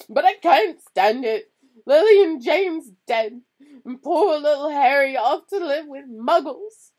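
high, loud sobbing wail. A narrator's reading. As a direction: cry it out, heartbroken. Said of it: "sobbed Hagrid".

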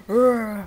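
mock growl of the character Sven; taunting friend over game with a mock rrr growl; imitated growl. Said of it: "Sven çok garip konuşuyor".

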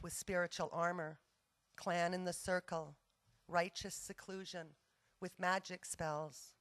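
measured poem recital with pauses between phrases; poetry reading. Acted. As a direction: read each line out, letting the phrases fall and rest. Reads a poem to audience.

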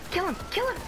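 shrill high urging shout; shouting orders over battle. Real, not acted. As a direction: scream the order at teammates. Urging kill in firefight.

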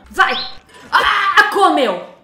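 loud shocked exclamation; excited shout. Real, not acted. Gamer seeing the plant eat the sim, loud shout. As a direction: yell it in delighted shock.

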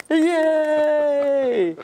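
high, bright cheer of delight; excited cheer. Real, not acted. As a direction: cheer him on warmly. Cheering guest's return.

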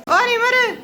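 loud high call across house. Real, not acted. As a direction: shout for him to come. Calling Nimar from afar.

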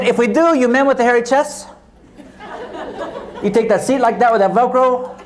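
put-on Hispanic accent. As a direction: flight attendant with a light Hispanic accent. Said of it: "tell you this story in character".

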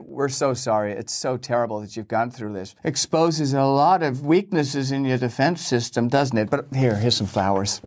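sorry with a barb hidden inside; mock condolences. Western press consoling Russia while gloating, low and syrupy. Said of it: "These condolences are starting to wear thin".

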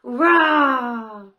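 a light playful lion roar. Shown as a demonstration. Teacher demonstrating a gentle roar for children. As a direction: roar for the kids to copy. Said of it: "Can you roar like a lion?".

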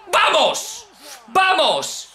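high, drawn-out triumphant yell; excited cheer. Real, not acted. Gamer urging his wrestler on, excited cheer. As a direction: cheer your wrestler on at full pitch.

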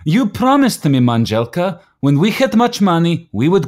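high, loud protest against her teasing; excited protest. Acted. Protests wife's accusation of drinking.

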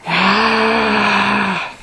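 long, level pretend roar; bear roar. Parent answers what the bear says, drawn-out roar. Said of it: "What's the bear say?".

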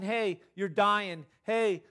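loud, insistent alarm calls; mock body shouting. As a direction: voice the body yelling a warning. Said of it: "their body's not shouting".

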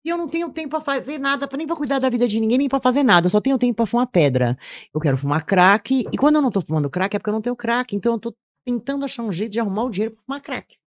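loud, high, urgent rant about only wanting crack; reliving her own frantic voice on the street; retold addict's outburst. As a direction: blurt it out loud and high, desperate and driven. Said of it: "Eu falava".

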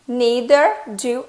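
slow demo. Shown as a demonstration. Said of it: "Neither do I".

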